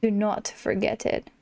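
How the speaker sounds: a hint of a slow, smug lion king; lightly voiced Scar. Gamer reading Scar's lines to the player, mildly smug. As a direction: drawl it out as a lazy, haughty villain.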